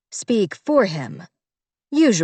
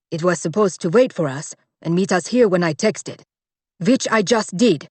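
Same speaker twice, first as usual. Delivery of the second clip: several words pressed harder than usual; emphatic words. Acted. Butler upset that the car left, stressing words. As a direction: stress four words in annoyance. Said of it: "he had emphasized four words there".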